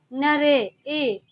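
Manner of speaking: slow नरे, stretching the ए sound in नरे; drawn-out vowel. Shown as a demonstration. Teacher to students, showing the ए vowel slowly. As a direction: draw out नरे, ए to show the ए vowel. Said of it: "आपने उच्चारण किया तो नरे बोला".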